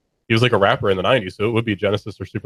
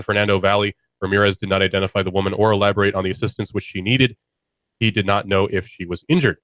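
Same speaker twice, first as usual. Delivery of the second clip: steady news-report reading. Acted. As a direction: read it like an anchor.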